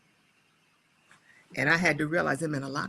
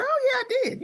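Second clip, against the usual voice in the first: eager mock reply; 3 dB louder, faster than usual. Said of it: "And I said".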